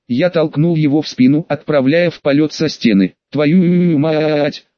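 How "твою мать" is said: long drawn-out vowels, like a falling yell; cursing cry. A narrator's reading. Colonel pushed off the wall curses as he falls, drawn-out cry. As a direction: stretch the curse out as it carries away. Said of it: "разнёсся над полем боя отборный мат".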